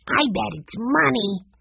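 put-on slightly high little-boy voice; a hint of an eager kid; lightly voiced boy. A narrator's reading. Benny guesses what the envelope holds, lightly voiced high boy.

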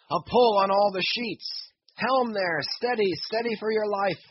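calling out orders across the deck; rally the crew, driving and urgent; captain shouting orders to his men in a storm; urgent commands. Acted.

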